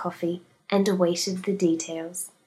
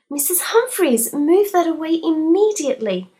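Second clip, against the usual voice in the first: high, loud panicked scream; 9 semitones higher, 6 dB louder than usual. Acted. Daisy screaming at Mrs Humphreys over the snake, loud scream. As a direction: shriek at her to move it. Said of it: "screamed Daisy".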